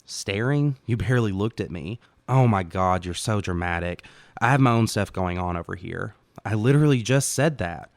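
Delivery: disbelieving and annoyed; exasperated. Acted. She argues back, exasperated.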